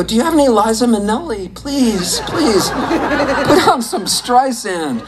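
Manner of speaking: fast, high begging; pleading kid. Retold or imitated. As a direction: beg your friends for show tunes. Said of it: "And I go".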